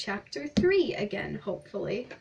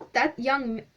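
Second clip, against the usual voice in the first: wrong voice; 3 semitones higher than usual. Shown as a demonstration. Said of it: "I did it in the wrong voice".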